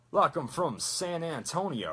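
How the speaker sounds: slow honey-molasses Texas drawl; smooth, stretched San Antonio accent; McCree. Shown as a demonstration. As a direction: drawl it slowly like a Texan. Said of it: "honey molasses voice".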